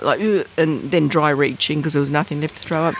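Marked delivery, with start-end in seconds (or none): 0.2-0.5 short mock retch; retold heaving noise; imitated throwing up. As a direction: gag as if vomiting. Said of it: "just throwing up".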